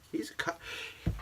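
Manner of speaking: hushed, scandalized half word; a hushed gossipy whisper; mock whisper. Shown as a demonstration. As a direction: whisper it as if it's shocking. Restarts in a scandalized hush.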